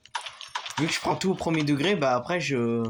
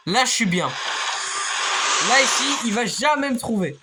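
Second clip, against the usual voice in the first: hushed hiding; 7 semitones higher, 3 dB louder, slower than usual. Real, not acted. Hiding from monster.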